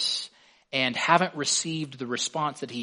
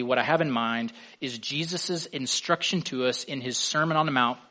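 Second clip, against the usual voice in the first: ordinary delivery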